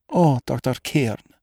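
high, slow, imploring woman; anguished appeal to the doctor; desperate plea. A narrator's reading. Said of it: "It was a plea".

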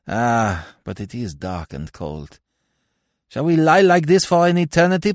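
loud, high, bitter outcry; harsh railing. A narrator's reading. Dead man curses the fiend that woke him, loud and harsh. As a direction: protest at full voice, cursing harshly. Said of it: "cried Francois harshly".

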